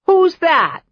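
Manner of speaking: high, loud, suspicious witch voice; wary cackle. Acted. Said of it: "The cackle was more wary now".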